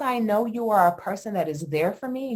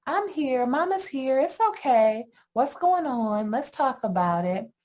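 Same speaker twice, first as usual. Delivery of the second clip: put-on higher, gentle soothing of a crying child; soothing mama; 5 semitones higher than usual. Mother soothing her upset toddler, gently. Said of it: "They want us to soothe them".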